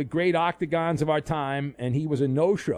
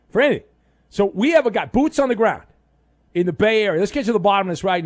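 excited; 6 semitones higher, 8 dB louder, faster than usual. Real, not acted. Hyping up the reporter segment.

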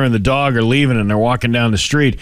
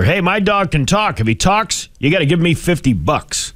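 cocky bar patron; 6 semitones higher than usual. Retold or imitated. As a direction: puff up and dare the bartender. Guy bets bartender his dog talks.

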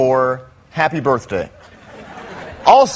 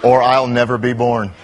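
mock time traveler. Sarcastic time traveler reply.

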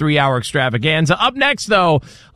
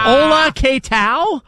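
mock Spanish; 10 semitones higher, much slower than usual. Joining the mock Spanish bit.

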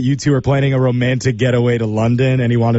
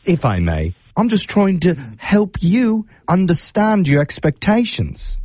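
put-on British accent; 4 semitones higher than usual. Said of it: "use my absolute worst British accent".

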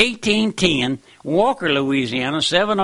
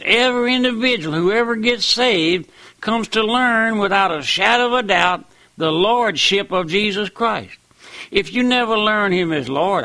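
preaching at full force, pitch swinging up and down; fiery preaching. Acted. Radio preacher warning listeners they are not saved, preaching hard. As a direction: hammer every warning home like a revival preacher.

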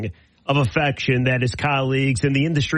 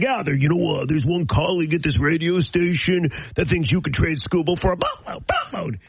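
lightly mocking colleague impression, boatload pitched up; mock a coworker, squeaking up on "boatload"; Pat Caputo. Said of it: "totally mock me".

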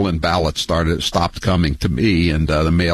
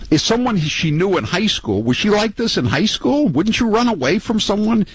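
much higher, mocking disbelief; incredulous; 14 semitones higher than usual. Real, not acted. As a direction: pitch it up in amazed ridicule. Host mocking her marriage.

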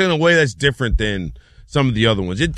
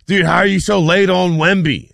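higher, emphatic imitation of critics; raised-pitch mock accusation; mock complaint; 5 semitones higher, 4 dB louder than usual. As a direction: mimic an exasperated challenge. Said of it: "The people that have been like".

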